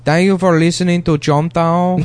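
hammed-up Spanish guy accent, welcoming listeners; mock Spanish accent. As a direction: announce it in a put-on southern European accent. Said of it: "I talk like this on the show".

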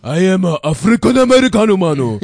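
exaggerated foreign accent; fake Japanese accent. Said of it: "That's Japanese".

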